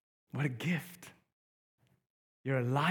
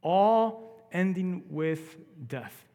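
slow grave; 4 dB louder, slower than usual. Acted. Horrific stories.

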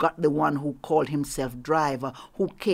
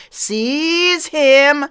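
much louder and higher, barked order; furious command; 9 semitones higher, 15 dB louder than usual. Acted. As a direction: roar the order at the guards. Master orders capture.

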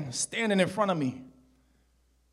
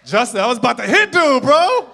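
laughing; 9 semitones higher, 12 dB louder than usual. Real, not acted. Laughing aside.

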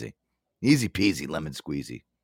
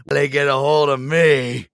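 slow, creepy Nicholson-style line; slow unhinged movie villain; Jack Nicholson impression; 6 semitones higher, 5 dB louder, slower than usual. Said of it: "the Jack Nicholson looking".

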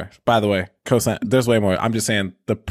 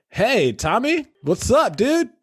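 much higher, mock excited hello to the driver; overeager greeting; 11 semitones higher, slower than usual. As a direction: play an overfriendly passenger greeting the Uber driver. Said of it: "and just being like".

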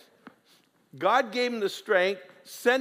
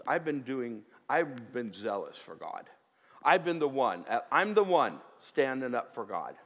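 whiny complaint; 6 semitones lower than usual. Acted. Preacher voicing Elijah complaining to God, low and self-pitying. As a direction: sulk through it, defending yourself.

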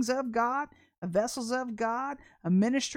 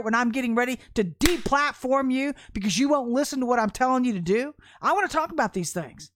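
loud, forceful prophetic rebuke, higher; God's voice, loud rebuke; 4 semitones higher, 7 dB louder than usual. Pretend. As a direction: thunder God's complaint at the listener. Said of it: "says the Lord".

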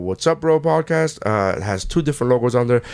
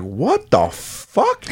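slow stunned disbelief; drawn-out what the fuck; shocked disbelief; much slower than usual. Retold or imitated. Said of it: "And I was like".

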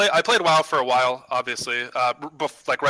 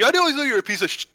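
mock drunk imitation; 11 semitones higher, faster than usual. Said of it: "you're like".

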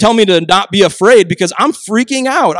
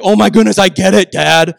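put-on exasperated teen; 6 dB louder than usual. Exasperated son in story.

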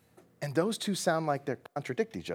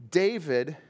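ordinary delivery

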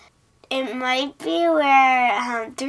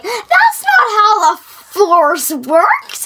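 Han Solo line; 9 semitones higher, 7 dB louder, much slower than usual. Retold or imitated. Han's retold deadpan line.

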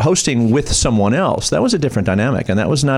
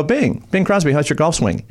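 higher-pitched mock greeting to a star; calling out cue; 4 semitones higher than usual. Warm-up man feeds Winters his cue, calling out playfully. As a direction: pitch it up as a setup line.

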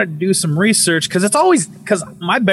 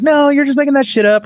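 high, louder mocking voice of the doubters; 11 semitones higher, 3 dB louder, faster than usual. Mocking skeptics who doubt his story, high scoffing voice.

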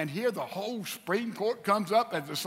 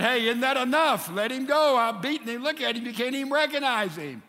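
loud, raised-pitch pleading; acted urgent appeal; 5 semitones higher, 5 dB louder than usual. Pilate holds beaten Jesus up to the crowd, urgent appeal.

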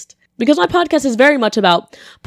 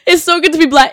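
louder and higher, proud; emphatic repeat; 7 semitones higher, 6 dB louder than usual. Real, not acted. Laughing off her slip to listeners, proud louder repeat. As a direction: say it again with full pride. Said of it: "but I meant to say it's so good to be back".

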